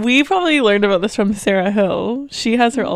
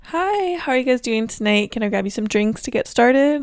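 customer service voice. Shown as a demonstration. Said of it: "my customer service voice is like this".

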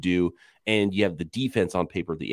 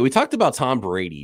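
ordinary delivery

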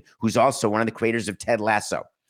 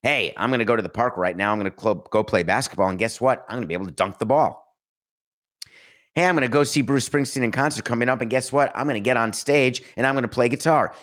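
mock boasting; 3 semitones higher, faster than usual. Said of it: "I can say that".

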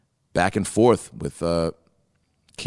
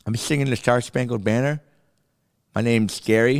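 higher-pitched mock kid voice; kid contestant; 4 semitones higher than usual. Young contestant introducing himself to the judges, mock kid voice. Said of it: "And kids would come in".

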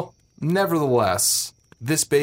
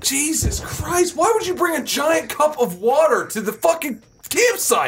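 high, exasperated rant; furious scolding; 13 semitones higher than usual. Acted. Storyteller scolds friend for bringing water, furious. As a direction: berate him with your pitch way up.

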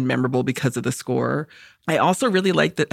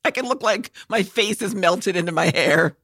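a high, hammed-up Scottish lilt; playing a laid-back dad with a put-on Scottish accent; mock Scottish accent; 5 semitones higher than usual. Jokes about being a dad in a mock Scottish accent. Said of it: "Is that Scottish?".

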